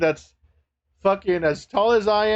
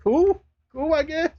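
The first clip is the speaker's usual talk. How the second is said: mock indifference; 9 semitones higher than usual. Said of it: "I was like".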